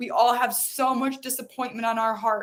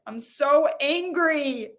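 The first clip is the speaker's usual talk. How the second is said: angry release; 4 semitones higher, slower than usual. Shown as a demonstration. Let those emotions out.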